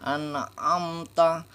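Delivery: slow "An amta" with the ain from the throat; correct ain. Shown as a demonstration. Teacher modelling the correct reading, slowly. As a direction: stretch out "amta", voicing the ain. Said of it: "tempat keluarnya huruf ain ini".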